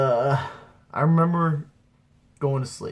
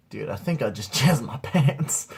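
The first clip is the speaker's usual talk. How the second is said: said out plainly with a laugh breaking in; repeated stoned confession. Acted. Stoned teen repeating it for his buddy, amused. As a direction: repeat it at normal volume, half laughing.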